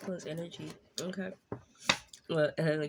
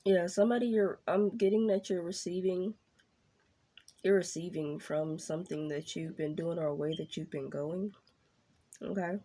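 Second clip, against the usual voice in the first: mouth full. Real, not acted. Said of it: "I got a piece of candy in my mouth".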